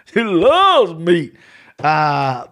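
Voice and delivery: a drawn-out laughing punchline. Acted. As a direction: she loves meat said slowly through a laugh. Repeats the joke, laughing.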